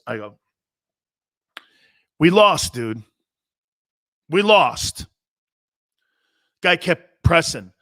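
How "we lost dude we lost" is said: raised voice. Retold or imitated. Player insisting to a reporter that they lost, raised voice. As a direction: imitate yourself starting to raise your voice. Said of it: "I started raising my voice".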